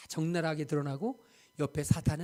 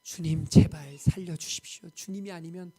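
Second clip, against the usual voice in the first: desperate plea; 3 semitones higher, 5 dB louder than usual. Retold or imitated. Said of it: "울었을 뿐인 거예요".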